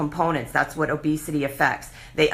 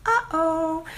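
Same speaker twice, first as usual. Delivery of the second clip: much higher, drawn-out warning uh-oh; ominous uh-oh; 10 semitones higher than usual. Shown as a demonstration. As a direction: sound the alarm in two notes.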